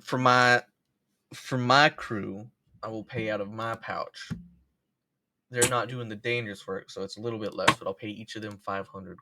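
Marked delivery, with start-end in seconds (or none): 0.0-4.3 loud commanding boss voice; booming boss. Acted. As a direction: address the crew with a big voice. Boss addressing the crew.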